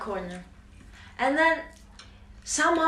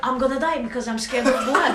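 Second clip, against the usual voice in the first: laughing panic; faster than usual. Retold or imitated. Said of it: "I'm like".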